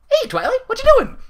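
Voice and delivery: very high, bubbly squeak; Pinkie Pie voice. Acted. Pinkie Pie chirping at Twilight in a very high squeak. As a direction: bounce it out like a hyper pony.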